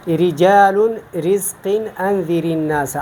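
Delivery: رجال drawn out slowly with a light R; thin ra. Shown as a demonstration. Teacher demonstrating ra with zer, thin ra. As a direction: keep the ra in رزق thin. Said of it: "ہم اس کو باریک پڑھتے ہیں".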